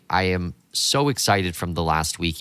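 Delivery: hoarse, partly lost voice. Real, not acted. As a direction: talk through a worn-out, hoarse voice. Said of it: "You can probably hear from my voice right now".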